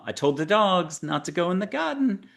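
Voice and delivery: put-on high, light Brooklyn accent for a mystic; lightly voiced Brooklyn mystic. Host imitating his Brooklyn-sounding spirit guide. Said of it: "it'll sound like a Brooklyn accent".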